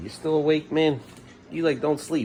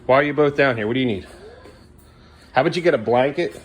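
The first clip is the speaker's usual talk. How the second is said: raised, louder questioning and orders; firm parental reprimand; 5 semitones higher, 3 dB louder than usual. Real, not acted. Sends children back upstairs.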